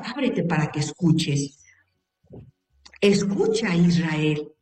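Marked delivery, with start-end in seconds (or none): 3.0-4.5 solemn recitation. Acted. Quoting the Shema prayer slowly.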